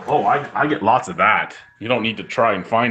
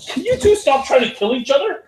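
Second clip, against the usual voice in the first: high, raised call across the room; calling out sharply. Real, not acted. Scolding two animals fighting nearby, real raised call. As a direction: snap at two fighting pets to stop.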